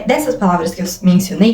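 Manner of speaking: ordinary talk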